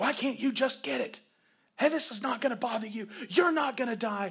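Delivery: mock angry shouting, loud and high. Recalling struggling to catch up, speaker re-enacts yelling at Tiffany. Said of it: "I would start yelling at Tiffany".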